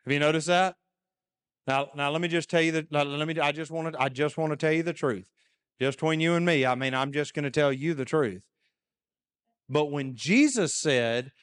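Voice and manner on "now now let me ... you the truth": fast, sly, confiding fib; sly liar. Retold or imitated. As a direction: lean in like a smooth talker about to lie. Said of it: "they're probably about to lie to you".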